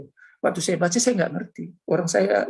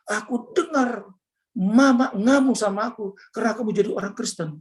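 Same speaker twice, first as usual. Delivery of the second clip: higher-pitched mock-tearful complaint; retold tearful wife; 4 semitones higher than usual. Wife tells husband that Mama is furious, imitated tearful complaint. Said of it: "istri saya nangis".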